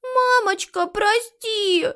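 put-on a small child begging forgiveness; a little daughter pleads with her mother, tearful and high; plaintive. A narrator's reading. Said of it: "жалобно проговорила она".

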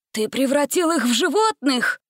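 gasping in shock. A narrator's reading. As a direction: gasp it out in disbelief. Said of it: "ахнул Дженкинс".

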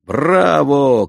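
high, loud cry of bravo; cheering shout. A narrator's reading. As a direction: cheer him on with delight. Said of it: "кричу ему".

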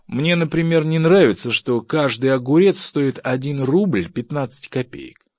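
high, loud grumbling over money; indignant complaint. Acted. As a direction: complain pointedly about the price. Husband complains about prices. (громкое возмущение скряги)

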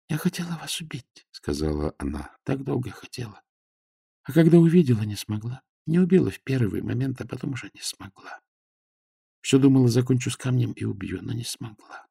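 тихий, высокий голос умирающей девушки; признаётся из последних сил, тихо; слабый голос раненой. A narrator's reading. (тихое признание раненой девушки)

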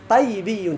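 طيبي sounded out as ṭaybiyyun; demonstrated derived form. Shown as a demonstration. Teacher showing how to derive the adjective, demonstrated form. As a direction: give طيبي with a single y before the b. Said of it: "شنو تقول؟".

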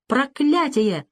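slow, high cry of rage; sputtering foiled villain. A narrator's reading. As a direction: curse in helpless fury. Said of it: "затопал ногами Леонсио".

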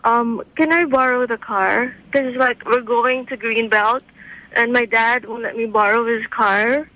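put-on mildly drawn-out private-school kid; slow schoolkid talk. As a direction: lightly imitate a slow, hesitant niece asking a favor. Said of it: "they're, like, so slow".

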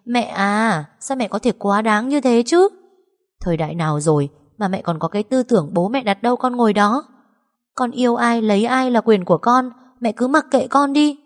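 losing control at her mother; snapping angrily. Acted. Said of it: "Giọng nói không kiểm soát nổi nữa mà gắt lên". (cáu gắt, giọng cao dần)

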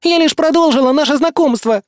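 whiny plaintive defence; plaintive whimper. A narrator's reading. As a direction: protest on the edge of tears. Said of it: "жалобно всхлипнула Кэсси".

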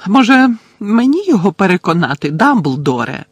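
high, loud offer with menace; calling out. A narrator's reading. Portrait witch offering Dumbledore help, calling out high. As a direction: pitch it up and call across the room. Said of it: "гукнула гостроока чаклунка".

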